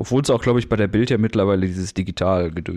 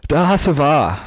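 clipping, overdriven mic; scratchy distorted voice when loud; fuzz distortion; 5 semitones higher, 5 dB louder, slower than usual. Real, not acted. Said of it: "du hörst dich auch gerade ein bisschen kratzig an".

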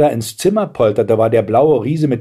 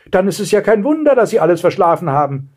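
put-on high-pitched excited girl; enthusiastic; 8 semitones higher, faster than usual. A narrator's reading. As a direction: chatter on in delighted realisation. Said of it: "rief Blaustrümpfchen begeistert". (begeistertes Mädchen, hohe Stimme)

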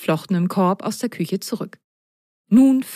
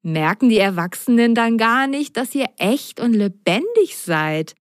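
put-on mischievous girl; 4 semitones higher than usual. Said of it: "fügte sie schelmisch hinzu".

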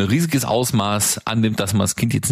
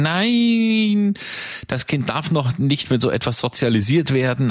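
mock outraged expert; 3 semitones higher than usual. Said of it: "die Hände über den Kopf zusammenschlagen und sagen".

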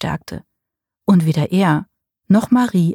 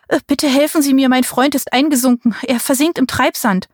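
pleading; 6 semitones higher than usual. A narrator's reading. Marie begs older couple.

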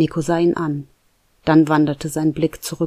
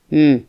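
louder grumbling hm; unconvinced hum; 6 dB louder than usual. A narrator's reading. Nico hums unconvinced at the coin plan, grumbling hm. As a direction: hum with doubt. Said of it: "brummte Nico wenig überzeugt".

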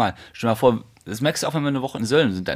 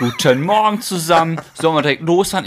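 mock cheerful morning voice; 3 semitones higher, 5 dB louder than usual. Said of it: "tat so, als ob du der frischeste Kerl".

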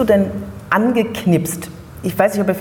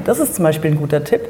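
whispering; 2 semitones lower, faster than usual. Real, not acted. Aside tip.

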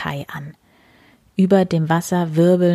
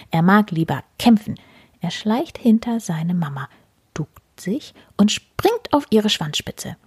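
gentle storyteller voicing cats; reading to children. A narrator's reading. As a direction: tell it cosily to small listeners. Reads second story aloud.

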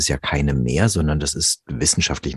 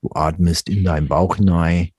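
a hint of Hessian dialect, mock soothing; Hessian hypnotist. Hypnotist in Hessian dialect lulls his client, mild mock Hessian. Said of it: "auf Hessisch dann sagt".

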